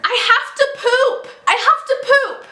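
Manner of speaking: put-on high little-kid holler, sung out; child calling out. Six-year-old calling down from upstairs, high urgent holler. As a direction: imitate a child hollering urgently from another floor. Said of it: "from upstairs, I hear".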